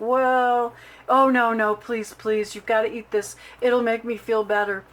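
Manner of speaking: lightly hammed-up long-suffering wife; hammed-up martyr. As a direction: play the brave patient milking the sympathy. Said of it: "I did ham it up a little bit".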